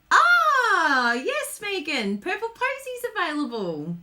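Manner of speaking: high, drawn-out delighted cry; excited announcement. Real, not acted. Host telling viewer Megan about available product, excited announcement. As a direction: burst out high with the good news.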